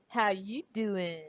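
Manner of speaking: slow, drawn-out flirty pickup line; Joey impression. Streamer imitating Joey from Friends, slow and drawn out. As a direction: stretch it out like a smooth ladies' man.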